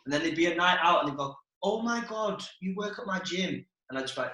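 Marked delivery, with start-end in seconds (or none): 1.6-3.7 higher, lightly mocking girl's voice; imitated gushing girl. Girl spotting gym worker on night out, mock gushing. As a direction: mimic a girl's sudden recognition.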